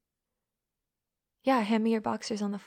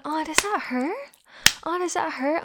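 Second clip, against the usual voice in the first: higher, cooing mock sympathy; mock concern; 5 semitones higher, 4 dB louder than usual. Dominant asking partner if it hurts, mock concern. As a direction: feign concern with a rising question.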